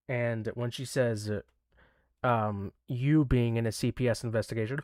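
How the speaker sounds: mid-yawn talk. Real, not acted. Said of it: "hold on, I'm yawning".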